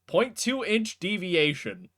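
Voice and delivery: slow talking-rock voice. Acted. Rock reporting after being thrown, talking rock. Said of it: "you hear from the rock".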